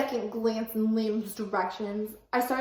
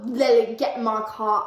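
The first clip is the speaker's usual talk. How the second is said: firm order; 6 dB louder than usual. Acted. Louis ordering Lily.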